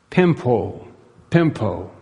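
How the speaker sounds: "Pimpo" set apart in careful demonstration; Greek word demonstration. Shown as a demonstration. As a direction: present "Pimpo" as a Greek vocabulary word, falling at the end. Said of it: "here he uses the word".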